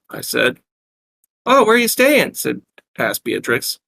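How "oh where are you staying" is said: high-pitched Brooklyn barmaid; heavy Brooklyn accent. Acted. Barmaid taking the newcomers' order, heavy Brooklyn accent. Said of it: "asked in a heavy Brooklyn accent".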